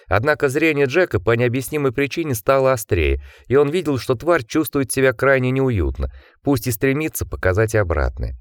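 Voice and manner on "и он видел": ordinary delivery, nothing marked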